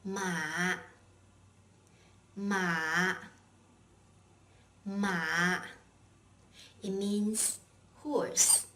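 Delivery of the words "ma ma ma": each MA long, low and dipping; third tone. Shown as a demonstration. Teacher drills the third tone, MA very low. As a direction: sink every MA as low as possible. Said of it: "your tone is as low as possible".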